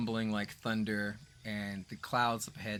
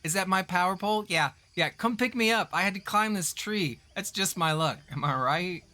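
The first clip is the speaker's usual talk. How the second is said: higher, louder laughing satyr voice; jovial satyr; 9 semitones higher, 7 dB louder than usual. Acted. Stranded satyr hails the rafters from a tree, loud and jovial. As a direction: call out from afar, high and loud. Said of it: "you hear this voice that just says".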